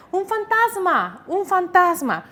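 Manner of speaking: exclamación aguda y alargada, con miedo fingido; grito asustado actuado. Acted. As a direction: imita a los discípulos asustados, con la voz en alto. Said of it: "Llenos de miedo empezaron a gritar". (grito de miedo actuado)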